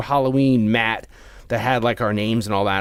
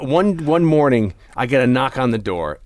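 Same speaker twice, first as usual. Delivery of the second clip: ordinary delivery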